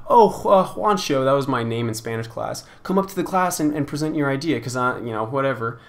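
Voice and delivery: sing-song teacher summoning a student; lightly imitating the Spanish teacher calling on Juancho; mimicking teacher.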